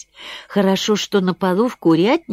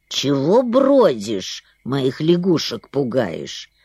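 put-on grumpy old heron; 6 semitones lower, slower than usual.

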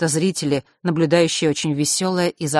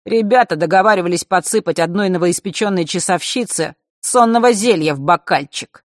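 sugary, louder; sweet voice; 3 semitones higher, 5 dB louder than usual. Acted. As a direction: sweet-talk it with malice. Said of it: "сладким голосом продолжал Марк".

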